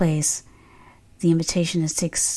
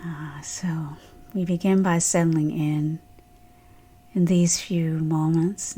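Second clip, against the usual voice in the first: guided meditation; 3 dB quieter than usual. Real, not acted. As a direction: ease listeners gently into stillness, unhurried.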